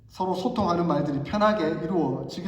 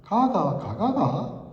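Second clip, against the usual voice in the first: Gyeongsang dialect demo; much slower than usual. Shown as a demonstration. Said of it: "부산 출신이시니까 아실 것 같은데".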